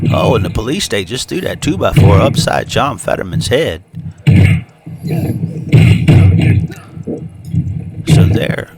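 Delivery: lively ringside play-by-play call; wrestling commentator. Acted. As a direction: call the match like a wrestling announcer.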